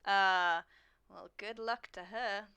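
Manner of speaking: dry sarcasm, dragged out; really sarcastic. Acted. Player's character to the people next to them, drily sarcastic. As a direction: mutter a slow, unimpressed good wish. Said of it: "Like, really sarcastically".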